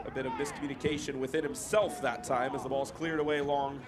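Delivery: measured match commentary, lifting on players' names; football commentator calling the play; live play-by-play. Real, not acted. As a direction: follow the ball phrase by phrase.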